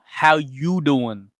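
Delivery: "How you doing" stretched slow, without ARE; corrective American greeting. Shown as a demonstration. Coach corrects streamer's attempt, slow and drawn out. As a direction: model "How you doing" slowly for a learner. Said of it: "No, no".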